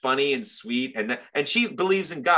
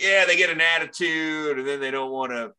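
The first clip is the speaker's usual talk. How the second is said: redneck impression; 4 semitones higher than usual. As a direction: grumble it as a mock redneck. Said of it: "terrible fucking redneck from Saint Louis".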